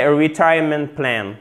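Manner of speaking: "retirement" stressed on the second syllable, re-TIRE-ment; model stress. Shown as a demonstration. Teacher introducing the term, careful stress. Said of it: "Accent tonique sur la deuxième syllabe".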